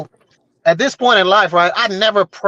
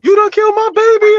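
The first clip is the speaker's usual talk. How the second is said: high, loud hammed-up outrage; fake mad; 6 dB louder than usual. Man on the phone faking fury at the girl, high hammed-up yell. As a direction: overact the grief and anger. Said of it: "I'm fake mad".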